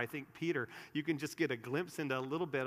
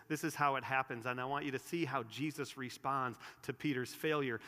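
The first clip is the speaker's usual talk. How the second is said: ordinary talk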